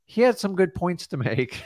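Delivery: "had" lifted high and leaned on; stress on had. Shown as a demonstration. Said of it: "That's all I say, just like that".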